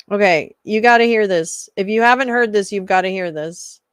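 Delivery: loud, pumped-up DJ hype; hyping the house remix for the chat; hype intro. Acted. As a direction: sell the new beat like a radio DJ.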